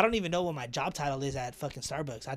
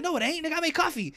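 much higher, insistent protest; indignant denial; 13 semitones higher, 5 dB louder than usual. Retold or imitated. Arguing with the boss about his job title, high and insistent. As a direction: refuse to accept it.

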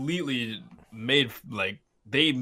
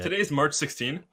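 laughing mock intro; faster than usual. Friend jokes a fake intro.

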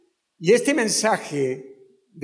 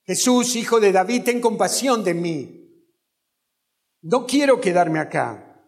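mock cry to Jesus. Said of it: "a su cuerpo que gritara".

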